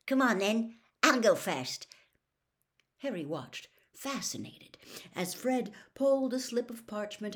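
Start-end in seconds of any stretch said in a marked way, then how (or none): 0.1-1.9 higher, louder excited urging; rally them, eager to go first; quivering excitement. A narrator's reading. Fred urging the other two on, quivering with excitement. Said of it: "quivering with excitement".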